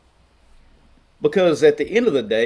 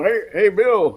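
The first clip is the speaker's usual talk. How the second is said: higher, louder schoolyard taunt; mocking kids; 8 semitones higher, 5 dB louder, slower than usual. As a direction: call it out like a teasing kid across the playground. Kids teasing him at school.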